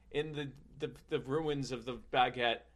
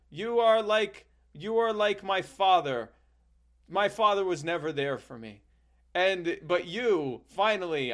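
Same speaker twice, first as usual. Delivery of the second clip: put-on heartfelt child; 3 semitones higher, 3 dB louder than usual. Young self voiced in story.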